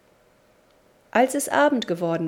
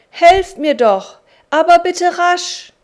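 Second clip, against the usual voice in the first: high, loud and slow plea; urgent call for help; 10 semitones higher, 12 dB louder, slower than usual. A narrator's reading. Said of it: "rief er".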